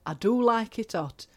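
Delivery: Brit-abroad holidaymaker in a put-on accent; put-on British accent. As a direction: play a grumbling tourist with a regional British accent. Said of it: "I don't know where that accent went".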